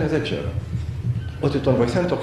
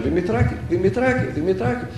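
retold calling out; 5 semitones higher than usual. Searchers call for the lost little boy among the graves, retold calling out. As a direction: call a lost child's name with rising endings, held back. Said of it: "Αρχίζουν να φωνάζουν".

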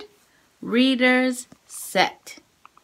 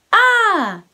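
loud call; 7 semitones higher, 5 dB louder than usual. Shown as a demonstration. Flashcard called loud.

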